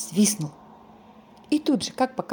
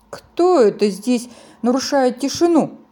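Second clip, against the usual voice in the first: angry; 4 semitones higher, 5 dB louder than usual. Acted. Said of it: "сердито спросил большой снеговик".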